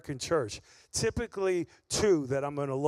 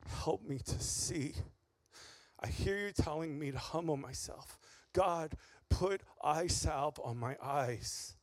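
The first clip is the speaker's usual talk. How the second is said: quiet prayer; 2 semitones lower, 5 dB quieter than usual. Retold or imitated. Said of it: "I said".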